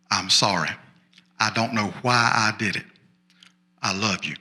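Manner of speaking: low, measured, lightly acted apology; retold sincere apology. Husband's retold apology to angry wife.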